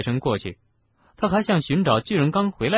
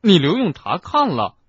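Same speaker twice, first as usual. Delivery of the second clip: raised, high, shocked outburst; loud question; 7 semitones higher, 6 dB louder than usual. A narrator's reading. Ron reacts to Hagrid's probation, asking loudly. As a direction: blurt it out loudly in disbelief. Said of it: "罗恩大声问".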